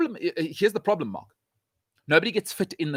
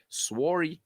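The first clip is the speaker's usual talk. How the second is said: soft Canadian-style "sworry"; lightly mock Canadian "sworry"; Canadian sorry; 5 dB quieter than usual. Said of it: "As my Canadian brethren say".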